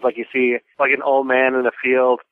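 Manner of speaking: normal talking voice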